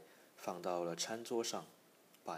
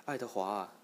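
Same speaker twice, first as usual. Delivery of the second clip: louder, searching call of a name; 3 semitones higher, 7 dB louder than usual. A narrator's reading. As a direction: call out for someone lost in the house. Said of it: "他喊道".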